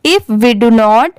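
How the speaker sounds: "If we do not" linked as one phrase; words read together. Shown as a demonstration. Teacher showing how the words read together, "If we do not" linked up. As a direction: join "If we do not" smoothly without stopping between words. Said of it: "अब इसे साथ में कैसे पढ़ेंगे?".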